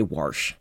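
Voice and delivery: "warsh" low and soft with an R before the sh; low grandma "warsh", R inserted; Virginia warsh. Retold or imitated. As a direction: imitate grandma saying "warsh". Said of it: "would say".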